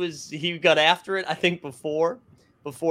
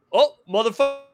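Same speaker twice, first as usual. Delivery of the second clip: higher and louder, crowing at a friend; hammed-up taunt with a laugh breaking in; gleeful mock heckle; 7 semitones higher, 5 dB louder than usual. S0 imitating drunk Pierce taunting KG, gleeful mock heckle.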